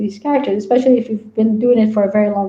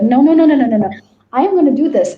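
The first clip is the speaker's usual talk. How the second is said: higher, rapid-fire no-no-no protest; mock defiance; 3 semitones higher, 3 dB louder, faster than usual. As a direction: push back like a headstrong character. Voices character defying the writer.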